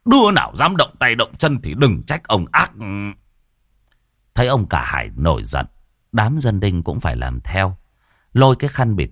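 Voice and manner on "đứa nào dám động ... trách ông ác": commanding, rising rebuke; stern angry order. Acted. Village chief orders the crowd to untie Hồng, angry. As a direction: shut the mob down with authority. Cả Hải stops the mob.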